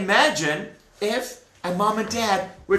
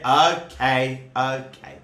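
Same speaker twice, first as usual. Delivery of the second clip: relenting Hashem; 5 semitones lower than usual. Acted. Hashem relents, acted quote.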